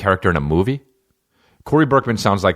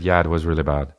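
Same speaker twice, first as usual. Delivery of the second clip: bad Russian accent; 3 semitones lower than usual. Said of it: "the worst Russian accent ever".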